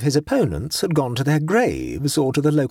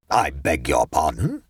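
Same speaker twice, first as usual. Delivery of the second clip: startled interruption; 9 semitones lower than usual. A narrator's reading. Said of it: "interrupted the vizier".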